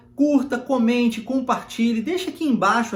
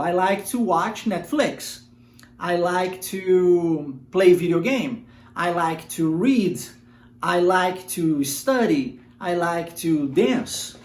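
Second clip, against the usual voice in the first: every "I like to" line said very slowly and clearly; slow model sentences; much slower than usual. Shown as a demonstration. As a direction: spell it out slowly for learners. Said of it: "Por exemplo". (frases modelo bem devagar)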